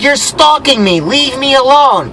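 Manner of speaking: high-pitched, fed-up rebuke; retold exasperated plea. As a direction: act out telling a pest off, stretching the end.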